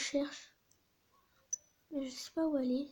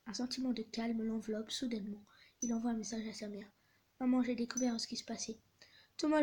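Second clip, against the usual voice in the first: restrained reading of a farewell exchange; story read-aloud. A narrator's reading. Mother and son saying goodbye by text, understated story reading. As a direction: read it out gently, lightly acting both sides.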